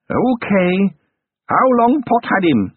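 high, slow crone voice, sly; haggling goblin crone. A narrator's reading. Goblin granny naming her price to Carrot, sly high crone. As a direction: bargain like a sly old goblin.

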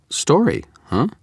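high, perked-up Story, huh?; suddenly hooked; sudden interest. A narrator's reading. Susan the reporter smelling a story, intrigued. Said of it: "a sudden twinge of interest in her voice".

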